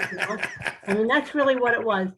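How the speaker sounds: chuckling through the words; laughing. Real, not acted. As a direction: laugh while you say it. Laughing on these lines.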